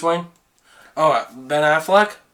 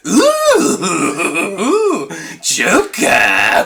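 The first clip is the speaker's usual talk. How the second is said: Mark Hamill's Joker; much slower than usual. Retold or imitated. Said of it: "do Mark Hamill's Joker".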